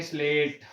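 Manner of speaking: स्लेट said alone, crisp sleṭ with no added vowel; slow pronunciation demo. Shown as a demonstration. Teacher repeats स्लेट for students, slow demo. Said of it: "आप यहाँ उच्चारण करके देखें".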